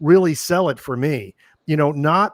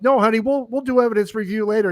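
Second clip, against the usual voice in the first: mock brushing off; 7 semitones higher, faster than usual. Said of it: "I'm like".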